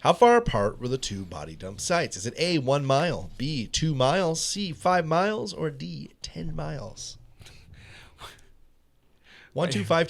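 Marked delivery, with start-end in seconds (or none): 2.2-7.2 lilting higher quiz options, drawn out; odd emphasis. Real, not acted. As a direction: stretch "five miles" and "ten miles" slowly, pitched up. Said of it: "Why'd you say it like that?".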